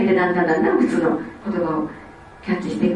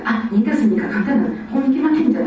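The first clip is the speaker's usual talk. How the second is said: put-on child thinking aloud; 5 semitones higher than usual. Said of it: "全部喋りながら".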